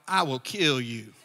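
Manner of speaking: put-on a kid puffing up his voice to sound like a man; teen's fake man voice. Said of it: "talking in that voice like a man".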